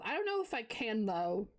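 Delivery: talking while chewing a snack; mouth full. Real, not acted. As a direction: speak through a mouthful of food. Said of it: "I know it's rude to talk with your mouth full".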